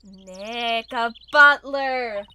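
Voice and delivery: loud, slow delighted exclaim; thrilled there's a real butler; excited. Real, not acted.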